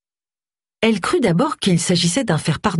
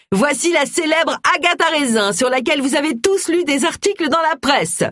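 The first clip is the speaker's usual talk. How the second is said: excited announcement; 10 semitones higher than usual. A narrator's reading. Host announces Agatha to guests.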